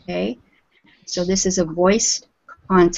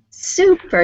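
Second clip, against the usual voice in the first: high praise; 10 semitones higher than usual. Real, not acted.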